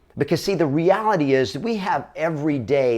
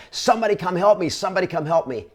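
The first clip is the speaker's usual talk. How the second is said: high-pitched call for help that drops back down the second time; retold yell for help; 6 semitones higher, faster than usual. A girlfriend pleading with the crowd at the car, in a high retold yell. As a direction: shout out to the crowd, then let it sag. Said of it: "she starts yelling".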